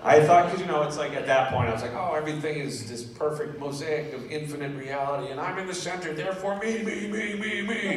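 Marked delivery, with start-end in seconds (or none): 1.9-8.0 grandiose mock mystic. Mocking his own old grandiose self.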